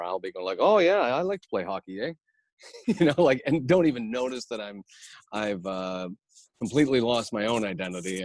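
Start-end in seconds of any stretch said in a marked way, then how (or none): 0.6-2.1 chirpy mock Canadian, pitched up a bit; Canadian accent. Improviser picking up friends' speech, mock Canadian accent. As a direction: put on a Canadian lilt with a tagged-on eh. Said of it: "three Canadians, by the end of that hour".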